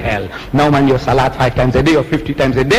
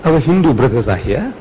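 pretend scholar; 5 semitones higher than usual. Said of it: "they said".

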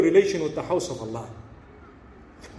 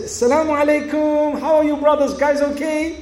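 cheery call-out; 5 semitones higher than usual. Retold or imitated. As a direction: call out brightly to break up a fight. Cheerfully calls out to arguing men.

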